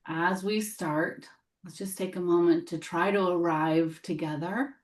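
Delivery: gentle meditation guide with long pauses; guided meditation. Real, not acted. Teacher helping the group arrive together, guided meditation voice. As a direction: lead them into settling, unhurried between phrases.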